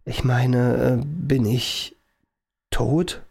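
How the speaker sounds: halting, stunned question with long pauses; disbelieving despair. A narrator's reading. George asking the professor about his own dead double, disbelieving despair. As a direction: falter toward the dreadful word, mildly desperate. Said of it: "mit ungläubiger Verzweiflung in der Stimme".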